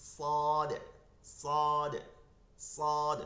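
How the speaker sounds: সাদ said slowly and loudly with a heavy emphatic স; Arabic letter demo. Shown as a demonstration. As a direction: drill the letter সাদ with a thick, full স. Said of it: "সাদের মূল উচ্চারণটা স থেকে". (মোটা স দিয়ে জোরে সাদ উচ্চারণ)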